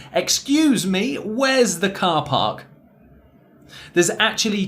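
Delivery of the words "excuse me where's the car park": slow, higher, car park with long ah; slow model reading. Shown as a demonstration. Teacher slowly models the example sentence. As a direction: read it slowly, stretching the ah. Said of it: "One more time".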